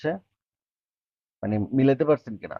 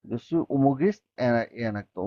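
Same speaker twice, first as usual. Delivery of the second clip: slow, careful French for learners; slow demo; much slower than usual. Shown as a demonstration. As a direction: model it slowly for the students. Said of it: "teacher models French line".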